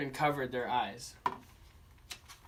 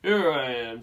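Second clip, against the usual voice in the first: loud reveal; 7 dB louder than usual. Acted. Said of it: "said the dinosaur".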